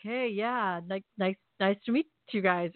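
halting, stammered greeting; barely able to respond. Retold or imitated. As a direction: stumble through a dazed hello. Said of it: "I can't even respond".

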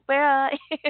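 high sung wail; mock karaoke wail. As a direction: belt it like drunk karaoke. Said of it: "everyone would scream that part".

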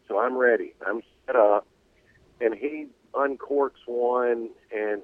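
breaking-up cell phone call; glitchy phone line dropping out; buzzy glitchy call audio. Real, not acted. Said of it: "you're cutting out real bad on us".

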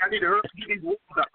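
words rattled out very fast; hurried, tumbling mimicry of an overexcited talker; mock excited rushing. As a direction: imitate someone racing to get the words out. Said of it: "You, you sound excited".

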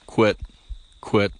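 short clipped quit like a duck; duck quit call. Shown as a demonstration. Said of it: "Saying quit".

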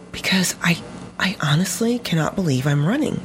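imitating tearful, half-whispered awe; retold tearful disbelief. Runner answering coach after training, mock tearful half-whisper.

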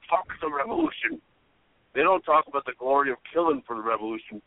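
lightly voiced Irish rock star, preachy; a hint of a singer ranting on stage; impression of a singer. A hint of the singer lecturing the crowd, preachy. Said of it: "And here she is as the singer".

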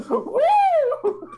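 hammed-up hick car salesman; car dealer ad voice. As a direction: shout it like a cheesy local ad.

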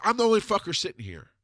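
high-pitched imitated comeback; exasperated retort. Wife answers screaming husband, acted exasperation. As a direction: throw it back at him, voice up.

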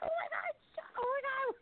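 high, laughing mock shout; laughing panic. Kids shushing grandma in front of the TV, laughing high-pitched. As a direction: crack up while pretending to panic. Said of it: "We were like".

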